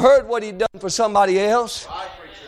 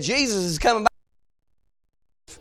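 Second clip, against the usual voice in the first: soft, slow, trailing away; quiet passing word; 6 dB quieter, much slower than usual. Acted. Somebody just saying Jesus is coming, quietly. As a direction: let it sink to a hush, slowly.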